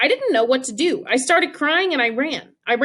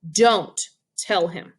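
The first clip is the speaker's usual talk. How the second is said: stern warning; 5 semitones lower, much slower than usual. Retold or imitated. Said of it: "She glared at me".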